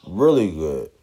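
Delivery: talking through a yawn; words stretched by a yawn. Real, not acted. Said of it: "had to yawn".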